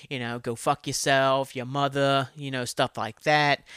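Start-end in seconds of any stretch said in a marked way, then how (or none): 0.4-2.3 lightly put-on Boston accent, slow; mock Boston accent. Speaker imagines walking round Boston, mock Boston accent. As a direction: toss out slow insults in a hinted Boston accent.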